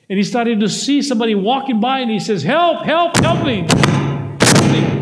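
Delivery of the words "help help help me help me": high, loud yelling for help from the hole; acted cry for help. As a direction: call up out of the pit, desperate. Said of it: "he started yelling".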